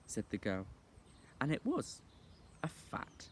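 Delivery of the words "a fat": whispered. A narrator's reading. Narrator whispers a detail.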